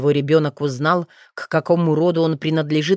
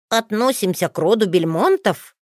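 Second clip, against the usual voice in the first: put-on higher boy's voice, asking back «Относимся к роду Бельмонтов?»; an amazed boy repeating his father's words; lightly higher child's voice, questioning «роду»; child's echo question; 3 semitones higher than usual. Son echoes as question.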